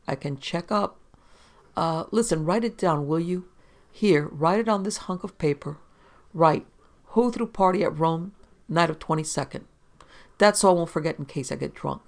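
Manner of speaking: lightly voiced drunk newspaperman, cooperative; a hint of boozy earnestness; tipsy reporter. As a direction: ramble helpfully, mildly sozzled.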